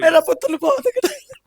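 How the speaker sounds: real high tearful wail; words lifted high by sobbing; crying. Real, not acted. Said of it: "ਤੁਸੀਂ ਰੋ ਨਾ".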